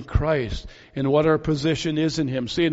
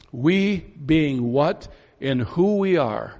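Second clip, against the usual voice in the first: "We" set apart and leaned on, slowly; slow, weighty reading stressing "We"; slower than usual. Shown as a demonstration. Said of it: "Paul puts great emphasis on that word".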